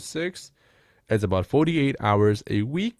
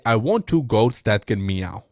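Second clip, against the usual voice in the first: deadpan joke, slow and loud; humorous reply; 4 dB louder, slower than usual. Shown as a demonstration. Setter answers a vague lead with a deadpan joke. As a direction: toss the absurd line off with a straight face. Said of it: "I say something humorous".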